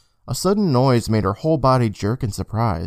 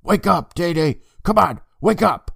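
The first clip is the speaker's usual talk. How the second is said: raised, higher urgent call to wake him; urgent loud call; 7 semitones higher than usual. Acted. Sister calling her sleeping brother to wake up, urgent raised call. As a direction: shake him awake with your voice, but not full volume. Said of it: "calling her brother's name as loud as she could".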